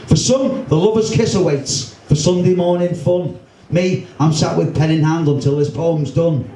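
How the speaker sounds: a lively poem read aloud to a crowd; poem recital. Acted. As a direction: perform the verse with bounce and timing.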